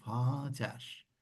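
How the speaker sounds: Vater said with an F sound, as Fater; German pronunciation. Shown as a demonstration. Teacher models Vater for students, F sound. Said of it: "ama ne diyoruz bakın".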